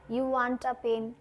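very slow, word by word; slow model sentence. Shown as a demonstration. Teacher modelling an English sentence very slowly. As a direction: dictate it for learners. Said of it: "তুমি একটি pen চাও".

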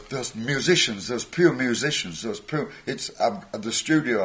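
mock-frantic, dragging each word out; panicked bandmate. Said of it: "And he goes".

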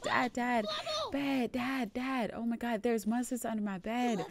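high, urgent, pleading calls; scared kid. Acted. Scared daughter waking her dad about monsters, high and urgent. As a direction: wake dad in a panic.

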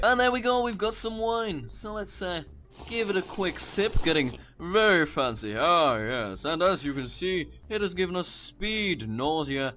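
lightly voiced posh tipsy gent; posh drunk voice. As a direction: put on a hammed-up posher voice after the wine. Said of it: "wine makes you talk posher".

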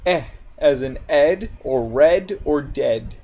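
"eh", "ed", "red", "dead" with a short e; short E demo. Shown as a demonstration. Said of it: "E can sound like eh".

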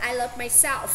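myself with its final f sounded clearly. Shown as a demonstration. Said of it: "mình cố gắng mình đọc là".

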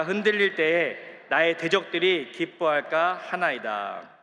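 slow solemn psalm reading; scripture reading. Acted. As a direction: read it out together, slow and weighty. Reading psalm slowly together.

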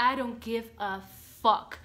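mock bravado; defiant. Real, not acted. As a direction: shrug it off boldly. Defiant shout.

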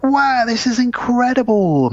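high, slow gushing wow; amazed family. Retold or imitated. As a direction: gush it like a thrilled family. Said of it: "they're all like".

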